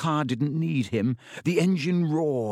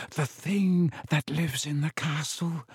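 put-on old spider creature voice, higher than narration; Aragog; 4 semitones higher than usual. A narrator's reading. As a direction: intone it as a giant spider. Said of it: "said Aragog".

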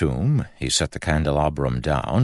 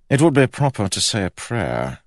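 high, raised king's voice; higher-pitched royal character voice; 7 semitones higher, 4 dB louder than usual. A narrator's reading. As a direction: play a king urging what is proper. King proposes prayer to Kell.

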